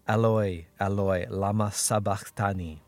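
a restrained cry to God, read aloud; loud cry. Acted. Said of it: "in a loud voice".

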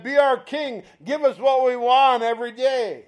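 lightly acted clamour; demanding crowd. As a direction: press it like an eager crowd.

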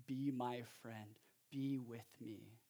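a light, hushed hint of Jesus inviting; preacher softly voicing Jesus's invitation; tender Jesus voice.

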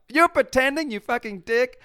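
high, loud mock outrage; mock accusation. Jersey friends turning on the pretender, mock indignant shout.

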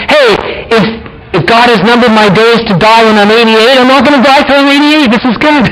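a believer cheered by good news; glad realisation. Retold or imitated. Believer voicing relief at numbered days, high and glad. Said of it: "That means".

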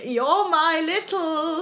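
slow, drawn-out mock croon of the scary film line; a lightly voiced creepy film character; imitating film character. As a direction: mimic the creepy line, half crying with laughter. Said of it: "she's like".

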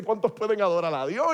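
loud preacher call, rising at the end; copying the preacher. Retold or imitated. Young preacher copying the TV evangelist to the crowd, loud call. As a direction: mimic the booming revival preacher. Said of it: "me envolví en el mood de lo que había visto".

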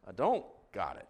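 low, deadpan comic letdown; deflated admission. Retold or imitated. Pastor to congregation after life goes pow, deflated admission. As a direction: drop the pitch in resigned defeat.

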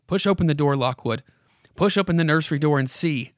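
put-on a creaky old house coaxing the visitor; spooky house voice. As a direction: lure him in like a haunted house. House voice goes on.

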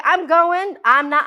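defiant declaration. Retold or imitated. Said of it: "And I'd be like".

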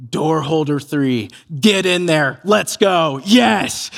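low, slow start building to a punchy yes; understated pump-up, growing stronger; self hype-up. Retold or imitated. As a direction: imitate a kid psyching himself up. Boy's retold self hype-up.

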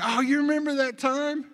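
high, lively retold table talk; imitated laughing reminiscence. Brothers reminiscing at the wedding table, imitated high-pitched amusement. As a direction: bring up an old story, pitched high. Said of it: "we were, we were laughing".

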